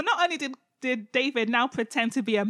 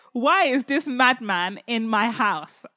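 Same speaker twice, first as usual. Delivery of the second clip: mock indignant; 5 dB louder, slower than usual. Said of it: "He said".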